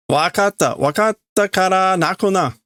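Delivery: put-on calm a crying kid down; Ichigo placating. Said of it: "So that's Ichigo saying".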